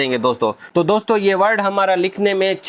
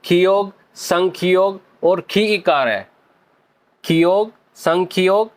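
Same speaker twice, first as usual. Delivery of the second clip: slow listing; slower than usual. Shown as a demonstration. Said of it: "पहला उसका part है".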